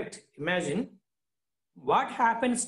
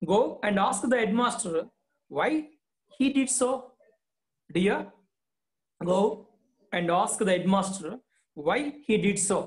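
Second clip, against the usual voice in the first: mother pleading; 2 semitones higher, faster than usual. Acted.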